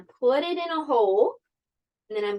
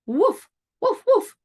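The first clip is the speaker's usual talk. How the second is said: high, short dog woofs; barking dog; 10 semitones higher, 5 dB louder than usual. Acted. Dog calls to the spider, high barking. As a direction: bark it out, pitched right up. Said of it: "barked the dog".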